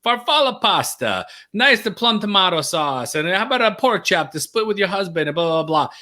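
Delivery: a hint of an Italian waiter's accent, lilting up high; bad Italian accent. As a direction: waiter reciting the wife's order in a mild Italian accent. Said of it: "I do a bad Italian".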